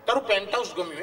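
high mock-admiring friend voice; teasing friend. Friend admiring Dinkar's penthouse, high mock-admiring voice. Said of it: "એ ભાઈબંધો કે".

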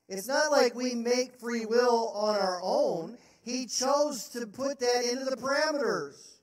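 insistent preacher; emphatic preaching. Real, not acted. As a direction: drive the point home hard. Preacher pressing point.

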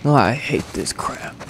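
soft, slow mock grumble; imitating sassy teenager. Gamer mimics the character's "I hate this crap", mock sassy teenager. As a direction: quietly mimic a sulky teen, drawn out. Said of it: "got a little sassy teenager in tow".

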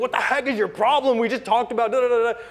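angry text. Retold or imitated. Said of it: "the angriest text".

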